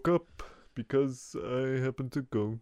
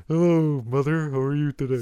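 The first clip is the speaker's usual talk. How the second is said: Carl Sagan imitation; 4 dB louder, faster than usual. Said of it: "Everyone in town talks like Carl Sagan".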